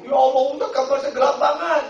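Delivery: high, loud flustered woman; a plump pilgrim panicking at the door; complaining pilgrim woman. Retold or imitated. Pilgrim woman complains to the preacher, flustered and high. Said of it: "Ke kamar saya".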